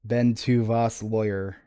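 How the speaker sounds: sounding out French word by word; halting French attempt. Host attempting a French Guardian's line, halting French. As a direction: read unfamiliar French haltingly. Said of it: "Also, the Guardian was French".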